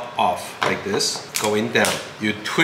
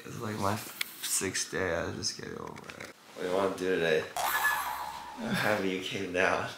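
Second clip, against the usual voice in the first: sick voice; 4 semitones lower, 14 dB quieter than usual. Real, not acted. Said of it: "I've been sick".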